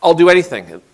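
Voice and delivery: pleading begging. Retold or imitated. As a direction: beg for mercy, voice climbing. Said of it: "The man pleads and begs".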